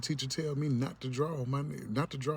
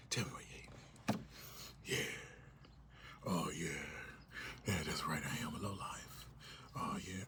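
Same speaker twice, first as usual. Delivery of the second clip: mock masochist; 4 semitones lower, 8 dB quieter than usual. Voicing someone enjoying being hated.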